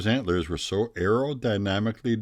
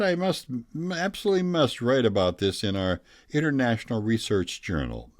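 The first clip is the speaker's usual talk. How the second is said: excited German scientist; 4 semitones higher than usual. Retold or imitated.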